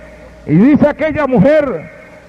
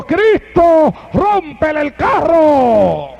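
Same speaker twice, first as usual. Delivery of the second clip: put-on old man cries out; 4 semitones higher, much slower than usual. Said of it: "el viejito gritó".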